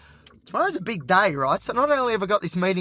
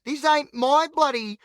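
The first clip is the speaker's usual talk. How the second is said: higher-pitched mock rant at the tailgaters; venting at the drivers on your tail, mock-exasperated; imagined rant at drivers; 7 semitones higher than usual. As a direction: rant at the cars behind you, half play-acted. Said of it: "I'm just imagining".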